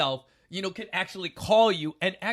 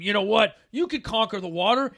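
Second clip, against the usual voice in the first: ego talking; 3 semitones higher, 7 dB louder than usual. Retold or imitated. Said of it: "And that ego told me that".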